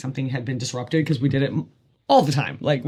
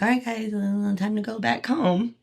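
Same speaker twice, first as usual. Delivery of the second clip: put-on calling the kids; 7 semitones higher than usual. Herself calling kids home.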